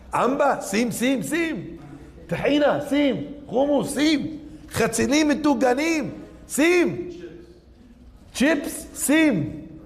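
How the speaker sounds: high, quick back-and-forth of a falafel order; rapid-fire order. Retold or imitated.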